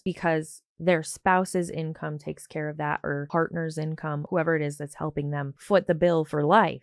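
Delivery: ordinary talk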